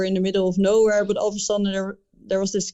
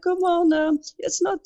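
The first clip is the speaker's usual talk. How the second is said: imitating drunk guy; 9 semitones higher than usual. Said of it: "He was like".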